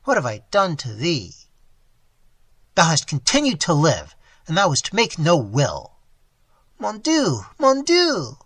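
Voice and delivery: anguished lament. Acted. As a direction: pour out hurt and betrayal.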